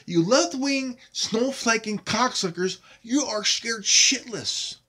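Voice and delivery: loud, furious insults hurled at critics; angry shouting. Real, not acted. YouTuber yelling at left-wing critics, furious and loud. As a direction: let the rage burst out, loud and biting. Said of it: "I am pissed off".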